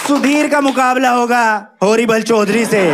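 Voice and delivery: slow, booming bout announcement; a ring announcer drawing out "हॉरिबल चौधरी"; wrestling announcer. Pretend. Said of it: "Haryana से कोई पहलवान".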